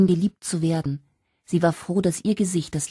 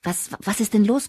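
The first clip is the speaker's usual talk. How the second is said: breathless; 6 semitones higher than usual. Acted. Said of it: "keuchte Sharon atemlos".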